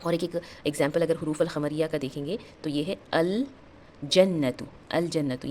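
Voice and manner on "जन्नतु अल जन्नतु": "अल जन्नतु" with the l fully sounded; careful teacher's model of "अल जन्नतु", l audible; clear lam. Shown as a demonstration. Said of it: "लाम का sound clear आ रहा है".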